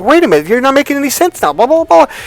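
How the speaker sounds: high, fast, loud mock protest; hammed-up bickering; acted quarrel.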